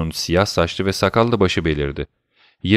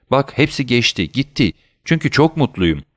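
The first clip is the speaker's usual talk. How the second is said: higher, happy lilt; smiling reassurance; 6 semitones higher than usual. A narrator's reading. Old father telling his son he is happy, smiling. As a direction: brush it off happily. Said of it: "dedi ihtiyar gülümseyerek".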